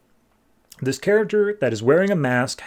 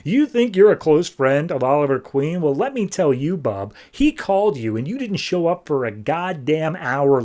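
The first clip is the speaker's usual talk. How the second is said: losing it; 2 semitones higher than usual. Retold or imitated. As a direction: blow up at the so-called friend. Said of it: "Arsenal just loses it".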